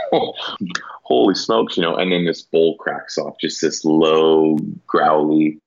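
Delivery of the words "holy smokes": slow breathless whisper; hushed slow whisper of disbelief; awed whisper. Retold or imitated. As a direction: breathe it out in amazement, barely voiced. Stunned reaction amid the elk.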